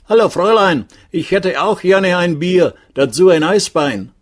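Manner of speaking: high-pitched guest calling the waitress; calling after her. A narrator's reading. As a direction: call out your order across tables. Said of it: "rief ihr nach". (hoch hinterherrufen)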